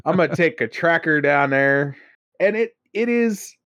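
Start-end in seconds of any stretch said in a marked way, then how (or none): 0.0-2.0 put-on cousin's rural accent. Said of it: "that's a voice that I can do".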